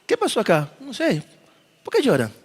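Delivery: soft, hushed wondering question; quiet and respectful. Shown as a demonstration. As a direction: ask quietly with respect among mourners. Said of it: "Suena respetuoso".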